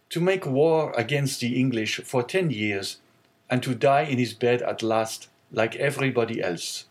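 a sad half-smile in the words; melancholy young sailor. Acted. Sailor muses to the owner on the captain's death, melancholy.

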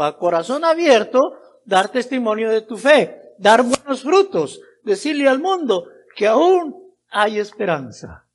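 emphatic pulpit exhortation with punched key words; forceful preaching. Real, not acted. Preacher calling everyone to the great commission, forceful preaching. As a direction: proclaim it as a call to everyone.

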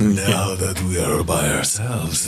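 eerie inner voice. Acted. Ominous inner voice taunting.

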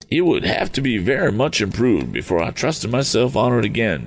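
a fluttery eccentric, relieved; eccentric Mr Damon. Acted.

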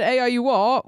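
British slang phrase, lightly performed; British regional slang. Shown as a demonstration. Explaining town slang to American hosts, British accent. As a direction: demonstrate the English town slang plainly. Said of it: "which is a slang in a certain part of England".

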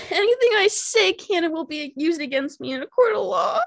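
high, tearful laughter through the words; laugh-crying. Real, not acted. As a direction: talk while laughing and crying at once. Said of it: "I'm crying because of it".

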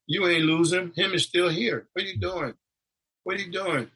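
retold protest. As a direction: call out from the table in disbelief.

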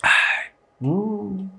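sighing after a sip of coffee; savoring a sip of coffee; while sipping a drink. Real, not acted. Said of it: "Deixa eu tomar um golinho de café".

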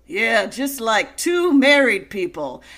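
slow, lightly voiced Goodman quip; slow deadpan joke; John Goodman impression. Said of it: "John Goodman says".

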